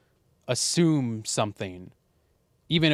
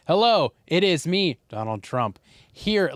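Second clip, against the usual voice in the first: Donald Trump; 5 semitones higher than usual. Retold or imitated. Explaining a badly edited political ad to co-host, mock spliced voice. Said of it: "just bad audio editing".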